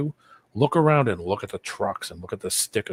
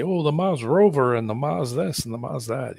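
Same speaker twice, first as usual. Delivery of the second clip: higher, singsong mock wonder; mocking imitation; 5 semitones higher than usual. Mimicking goofy NASA videos to a co-host, mocking. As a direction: parrot them in a higher mocking voice.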